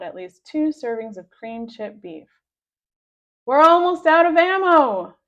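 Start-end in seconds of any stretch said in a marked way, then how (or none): 3.4-5.2 loud, higher warning; alarmed shout. A narrator's reading. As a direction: shout the bad news in alarm. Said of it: "Captain Underpants shouted".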